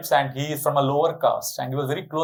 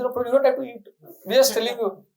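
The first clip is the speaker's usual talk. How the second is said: much higher-pitched coaxing voice; imitating insistent devotees; 9 semitones higher, faster than usual. Devotees offering dinner to Prabhu, high-pitched coaxing. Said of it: "sometimes they get dinner and they say".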